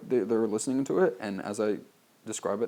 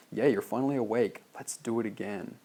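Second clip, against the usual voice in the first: flirty blonde; 2 semitones higher than usual. Shown as a demonstration. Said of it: "so I show it".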